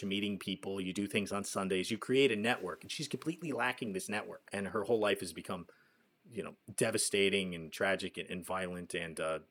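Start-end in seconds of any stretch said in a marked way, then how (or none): 6.3-9.4 groggy, hungover speech. Real, not acted. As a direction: talk like you're nursing a hangover. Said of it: "I'm so hungover".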